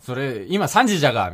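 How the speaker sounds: a newcomer blurting Okayama dialect. Retold or imitated. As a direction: call it out in thick Okayama dialect. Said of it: "岡山弁ってよく。".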